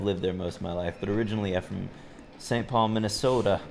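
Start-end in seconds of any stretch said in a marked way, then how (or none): 2.4-3.6 put-on light, brief Minnesota accent; a hint of a Minnesota twang; Minnesotan accent. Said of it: "It was a terrible Minnesotan accent".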